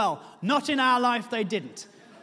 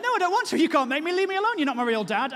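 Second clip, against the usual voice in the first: put-on childish tantrum; 5 semitones higher than usual. Childish refusal to help.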